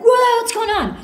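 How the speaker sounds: a high, loud whoa of retold surprise; mock shock. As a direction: act stunned that the car is gone, playing it up. Finds car gone in story.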